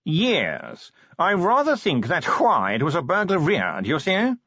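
a preoccupied chicken of a posh gentleman, dragging each word; posh yawning curator. Acted. Curator voiced in story.

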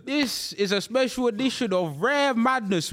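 upbeat host announcing the show; show host intro. Acted. Opens the show segment.

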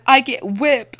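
high, loud, laughing broken-English line; laughing as the silly Papa. Pretend. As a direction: say it through laughter. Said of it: "Papa said".

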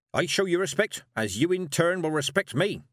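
high, emphatic witch's pronouncement; old witch, imperious. Acted. Old witch promises the girl respect, imperious.

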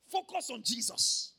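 loud and slow, leaning on every word; emphatic slow exhortation. Real, not acted. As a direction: hammer it home to the church. Preacher exhorts the congregation.

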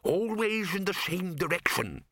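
high, fretful mutter. A narrator's reading. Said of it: "the bursar muttered".

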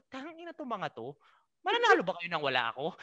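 replaying his fury at being left, half laughing; retold angry outburst. To teammates who left on the bus, a laughing mock rant. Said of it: "Talagang galit na galit ako".

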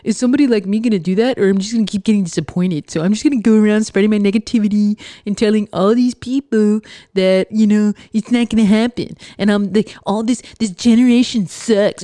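quick, lightly whiny imitation; mild mock of a complainer; mocking whiny pessimist. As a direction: parody someone spreading negativity. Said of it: "this is what I think they sound like in my head".

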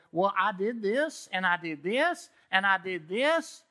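drawn-out boastful listing; mock bragging. Pastor mocks the congregation's bragging ego, smug boasting. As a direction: puff up and list your deeds. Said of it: "we like to go".

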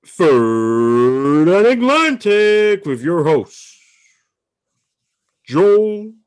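big drawn-out host introduction, rising high and loud; ring announcer. Pretend. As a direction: boom out the name like a fight-night announcer.

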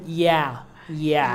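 lightly imitated American "yeah"; mock American drawl, understated; a touch of American accent; put-on American accent. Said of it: "'n ding gehad vir 'n Amerikaanse aksent".

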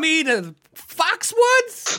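high, loud put-on gambler voice; mock gambler. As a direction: ask it like an excited gambler heading to the casino. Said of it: "They're like".

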